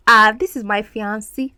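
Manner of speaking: quoting others, fiancé said fee-AN-see; imitated mispronunciation. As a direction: mimic people who end fiancé in "see". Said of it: "there are people that say fiancé".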